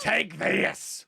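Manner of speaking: playful shout. Acted. Splashing friend in the bath.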